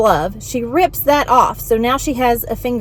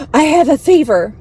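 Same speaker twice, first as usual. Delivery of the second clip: whiny patient; 7 semitones higher, 5 dB louder than usual. Retold or imitated. Patient voiced insisting on fever.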